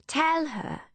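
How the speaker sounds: high, eager plea; eager urging. Acted. Emmeline urging Philippe to tell, eager.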